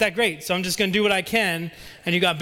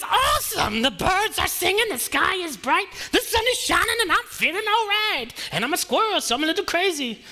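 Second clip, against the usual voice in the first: much higher, giddy squirrel voice; excited squirrel; 10 semitones higher than usual. Acted. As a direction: bounce it high like a hyper squirrel.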